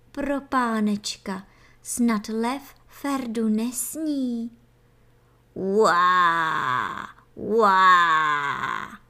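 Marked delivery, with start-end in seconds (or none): 5.5-9.0 deep, loud double creature roar. Acted. Baby antlion roaring closer, loud deep roar. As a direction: roar so the stones shake. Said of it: "zaznělo znovu, až se kameny sypaly".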